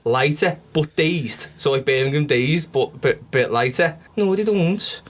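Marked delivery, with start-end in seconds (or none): 4.2-5.0 put-on Cork accent. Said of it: "he was just south of Cork".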